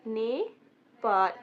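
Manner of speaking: नेपाल drawn out very slowly; slow pronunciation. Shown as a demonstration. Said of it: "नेपाल को हम क्या पढ़ते हैं".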